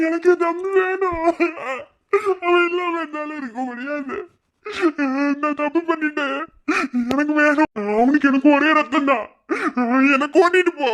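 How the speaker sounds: crying plea. Acted. Sister begs to save brother.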